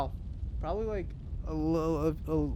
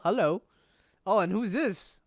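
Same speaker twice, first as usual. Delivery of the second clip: ordinary delivery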